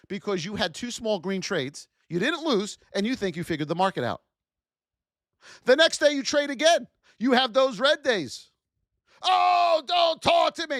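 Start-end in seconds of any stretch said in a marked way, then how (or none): 9.2-10.8 mock furious scream, high, very slow, drawn out. Acting out a trader after red days, screaming at family: screaming angrily. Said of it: "One minute he's screaming at us".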